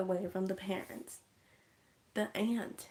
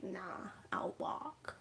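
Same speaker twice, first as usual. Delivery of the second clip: whispered; 6 dB quieter, much slower than usual. Retold or imitated. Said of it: "And he's like".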